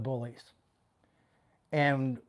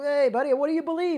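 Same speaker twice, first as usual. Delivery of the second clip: mock-friendly retort; 11 semitones higher, 6 dB louder, faster than usual. Retold confronting angry man.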